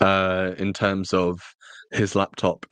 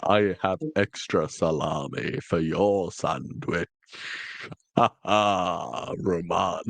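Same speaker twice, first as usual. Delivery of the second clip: hammed-up, slightly lowered actor impression; Tom Baker; 3 semitones lower, slower than usual. Host riffing on sandwiches in a mock Tom Baker voice. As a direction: play it theatrically with a stagey laugh. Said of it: "go into a Tom Baker impression".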